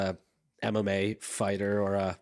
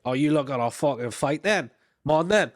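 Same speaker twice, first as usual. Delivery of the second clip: louder, rising challenge to fight; squaring up; 4 semitones higher, 4 dB louder than usual. Retold or imitated. Falls Road boyfriend daring the detective to fight, rising loud. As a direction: goad him into a fight, getting louder.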